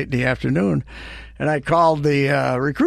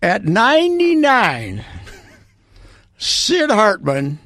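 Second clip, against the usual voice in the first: mock grand rant; 5 semitones higher than usual. Real, not acted. Ranting about Sid Hartman.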